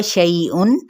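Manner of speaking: शैउन with the noon said clearly; clear izhar. Shown as a demonstration. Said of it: "यहाँ पे इजहार होगा".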